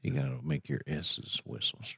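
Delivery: soft, low voice with every S in "S's whistles" whistling; whistled S's. Shown as a demonstration. Host showing co-host the trick, "S's whistles" with whistled S's. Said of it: "Like the gopher in Winnie the Pooh".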